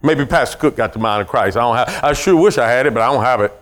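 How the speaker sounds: lightly voiced doubter; low doubting mope. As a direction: mope like you can't believe it. Mimics doubting believer.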